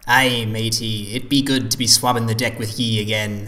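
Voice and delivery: lightly voiced pirate sailor; a touch of a hearty deckhand. Co-host answers the pirate intro.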